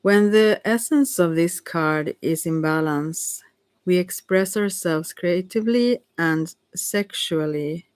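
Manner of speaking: halting read-aloud, phrase by phrase; strange reading. Real, not acted. Reader with a hard-to-see card, strangely halting. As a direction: read carefully, pausing between phrases and drawing out the last. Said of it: "Oh, I read so strangely".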